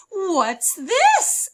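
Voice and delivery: high, loud surprised "What's this?"; a girl discovering something odd; wide-eyed child asking; curious question. Acted.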